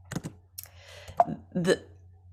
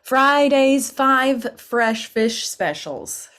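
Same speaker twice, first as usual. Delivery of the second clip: slow tongue twister; 6 semitones higher, 7 dB louder, slower than usual. Shown as a demonstration. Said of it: "here's another one".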